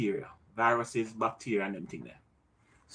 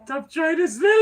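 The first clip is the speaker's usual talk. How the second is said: shouting; 13 semitones higher than usual. Real, not acted. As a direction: yell it out. Yelling at Josh mid-challenge.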